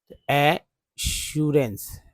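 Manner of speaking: एश्योरेंस drawn out slowly, each syllable clear; slow spelled-out pronunciation. Shown as a demonstration. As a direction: sound out एश्योरेंस slowly for the class. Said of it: "ए को यहाँ ए बोल रहे हैं". (एश्योरेंस को धीरे धीरे साफ़ बोलना)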